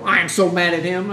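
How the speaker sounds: a touch of loud anger; mild mock anger. Grieving relative angry at the dead man, mild anger.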